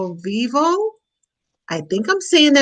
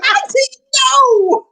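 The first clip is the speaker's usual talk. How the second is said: laughing plea; 13 semitones higher, 4 dB louder, much slower than usual. Real, not acted. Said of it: "everybody is laughing at me now".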